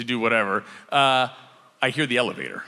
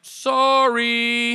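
high embarrassed roommate voice; a hint of an awkward roommate; sheepish sorry; 9 semitones higher, 6 dB louder than usual. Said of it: "he's like".

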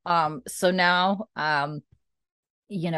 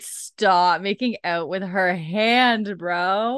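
slow, drawn-out mock scold; drawn-out scolding of the TV couple; 2 semitones higher, much slower than usual. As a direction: tease him like a disapproving friend. Teasing a character on screen.

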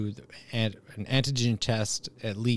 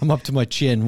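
laughing; 3 semitones higher, 7 dB louder than usual. Real, not acted. Laughing mid-sentence.

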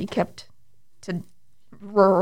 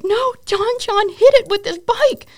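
high, loud eager excuse; giddy, high-pitched excuse; pleading excuse; 12 semitones higher, 5 dB louder than usual. Retold or imitated. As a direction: plead it like a kid defending yourself.

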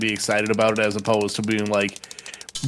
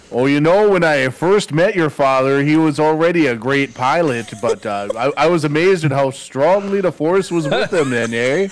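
put-on Minnesota accent. The speaker doing a Star Wars line in a Minnesota accent. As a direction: deliver the movie line like a lifelong Minnesotan. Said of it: "you do the best Minnesota accent".

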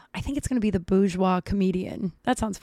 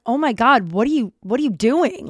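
louder, mildly outraged retelling; shocked protest; 3 semitones higher, 5 dB louder than usual. Retold or imitated. She confronts her friend over coffee, shocked protest. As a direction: re-enact calling him out, taken aback.

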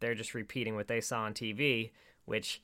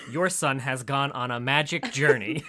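louder, hammed-up proclamation with a laugh; mock crazy explaining; 6 dB louder than usual. Explaining to the Lord about his son, mock-crazy proclamation. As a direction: declare it like a crazy prophecy, amused. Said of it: "she explains completely non-crazily".

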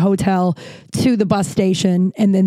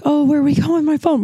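mock freaked out; 7 semitones higher, faster than usual. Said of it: "I don't know why I'm freaked out".

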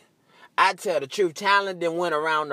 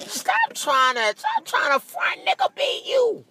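shouted callout. Real, not acted. Calling out fakers.

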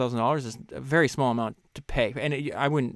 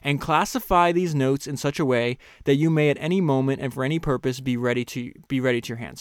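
raised, measured reading voice; reading a quote aloud; 4 dB louder than usual. Acted. Host reading a book passage to listeners, measured. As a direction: read the author's words with weight.

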